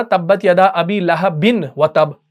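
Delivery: slow, measured recitation of तब्बत यदा अबी लहबिन व तब; Quran recitation demo. Shown as a demonstration. Teacher gives a recitation example in class, slow and measured. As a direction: recite it slowly, like a tajweed model. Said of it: "for example आपने पढ़ा".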